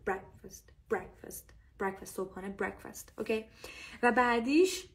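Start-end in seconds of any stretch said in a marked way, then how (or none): 0.1-2.0 breakfast repeated as "BREK-fəst", second vowel very short; breakfast with a barely voiced short ending. Shown as a demonstration. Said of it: "ای کوتاه انگار". 2.6-3.2 breakfast as "BREK-fəst", short second vowel; breakfast with a short weak "fəst"; correct breakfast pronunciation. Shown as a demonstration. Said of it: "ای کوتاه انگار".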